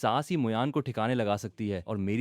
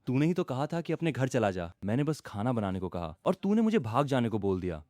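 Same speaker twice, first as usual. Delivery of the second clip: sad voice. Acted. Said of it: "दुखी आवाज में बोला".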